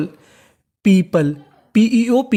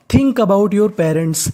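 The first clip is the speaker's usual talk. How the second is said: slow model reading; much slower than usual. Shown as a demonstration. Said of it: "teacher models the phrase".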